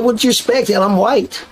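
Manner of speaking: high, put-on white-boy accent; Blue's white accent. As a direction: imitate white talk in a high voice. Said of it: "He said".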